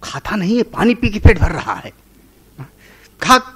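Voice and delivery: exasperated storybook father; scolding father. Retold or imitated.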